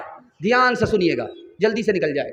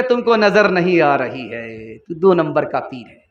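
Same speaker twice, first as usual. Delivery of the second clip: mocking retort; 7 semitones lower than usual. Woman mocks the fake pir.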